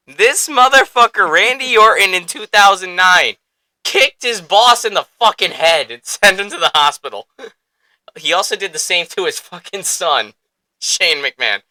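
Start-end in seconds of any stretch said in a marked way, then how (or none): 0.1-9.8 high and louder, gleeful rant; gleeful hype. Real, not acted. Fan listing the villain's brutal deeds, gleeful and loud. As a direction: savour every brutal detail.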